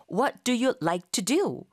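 drawn out word by word; slow model sentence. Shown as a demonstration. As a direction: say it slowly for students to copy. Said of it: "이런 식의 문장을 만드는 순서".

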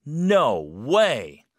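shocked. Shown as a demonstration. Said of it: "좀 더 강하게".

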